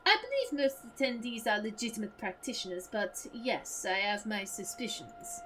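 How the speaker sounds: lightly voiced French accent; a hint of comic French. Debunker admits his suspicions in a French accent. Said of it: "my French accent is more allo allo".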